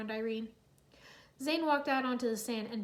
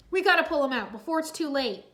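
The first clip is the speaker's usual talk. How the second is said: exclaiming; 3 semitones higher, 7 dB louder than usual. Acted. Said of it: "Cole exclaimed".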